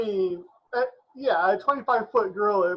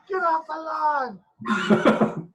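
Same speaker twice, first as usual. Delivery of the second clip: put-on angry old man yelling get off my lawn; shouting at trespasser; 4 semitones higher, 8 dB louder than usual. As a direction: bellow at trespassers from the porch. Gorilla voiced by player.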